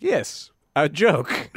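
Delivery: slow, drawn-out playing along; awkward mock agreement. Someone credited with an accidental joke, awkward slow agreement. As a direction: stretch it out as a feigned yes. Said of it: "And you're like".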